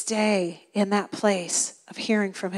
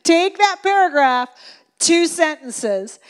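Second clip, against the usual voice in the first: sister's advice; 4 semitones higher than usual. Retold or imitated. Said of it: "She's like".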